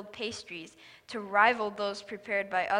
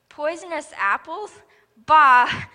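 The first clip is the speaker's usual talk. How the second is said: loud dismissive bark of a snake; scornful snake shout; 5 semitones higher, 14 dB louder than usual. A narrator's reading. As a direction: spit it out with contempt. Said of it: "hissed the snake".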